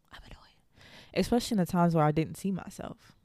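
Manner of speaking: choked whisper on the edge of crying; fighting tears. Real, not acted. Host thanking God for her growth, whispering near tears. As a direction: whisper it, holding back tears. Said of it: "I'm about to cry".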